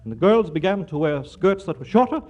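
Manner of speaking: punchy newsreel announcer read. Acted. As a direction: sell the headlines like a newsreel. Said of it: "what the newscaster says".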